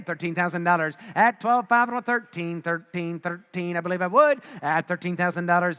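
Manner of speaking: rapid auctioneer bid calling. Real, not acted. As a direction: call the bids like an auctioneer.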